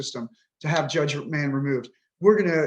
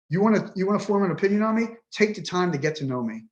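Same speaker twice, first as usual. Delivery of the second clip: real exasperation, punching the openings; frustrated, demanding to be taken seriously. Real, not acted. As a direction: vent with pointed, emotional challenges. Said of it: "So there's my frustration".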